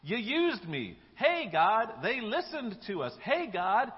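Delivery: high, loud, exultant cheering; ecstatic. Acted. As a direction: call out to God, thrilled and amazed. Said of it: "should be ecstatic".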